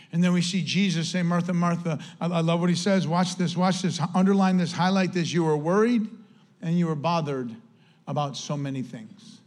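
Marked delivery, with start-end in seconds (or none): 1.2-2.0 low and gentle name call; gentle compassionate call; soft compassion. Shown as a demonstration. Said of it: "his tone here is one of soft". 5.3-9.4 fading low and gentle; Jesus gently correcting Martha; soft compassion. Shown as a demonstration. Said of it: "one of soft and one of compassion".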